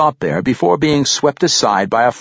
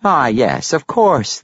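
cultured gentleman; 4 semitones higher, slower than usual. A narrator's reading. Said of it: "the halfling clarified".

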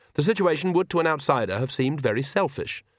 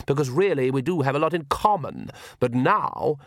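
condescending Count. Acted. The Count lectures Granny.

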